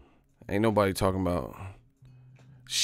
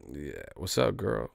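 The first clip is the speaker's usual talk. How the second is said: American pickup line; 5 dB quieter than usual. Retold or imitated. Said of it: "we just get straight to the point".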